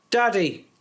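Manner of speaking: put-on high little girl's voice, pleading; toddler voice. Daughter asking daddy for a song, in a high child voice. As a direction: imitate a tiny daughter asking her dad. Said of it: "she'd be like".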